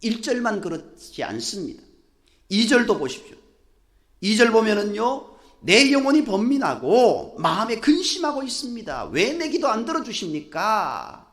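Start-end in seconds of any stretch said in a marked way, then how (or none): 5.6-11.3 raised-pitch complaint to God; acted anguished protest; resentful lament. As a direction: plead in reproach, pitched up. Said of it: "원망하는 다윗의 모습".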